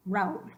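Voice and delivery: Raúl as one syllable, rowl; wrong diphthong. Shown as a demonstration. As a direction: clip Raúl into one gliding beat. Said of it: "Try that".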